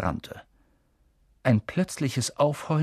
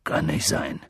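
shaky voice; 10 semitones lower than usual. Acted. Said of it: "meinte Hagrid mit zitternder Stimme".

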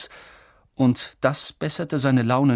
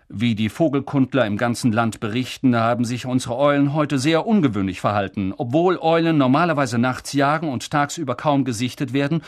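newsreader; 3 dB louder than usual. Acted. News broadcast read out.

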